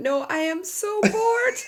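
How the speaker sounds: very high, slow, drawn-out words through laughter. Retelling what someone said when he burst out laughing: imitating someone laughing while talking. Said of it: "burst out laughing and went".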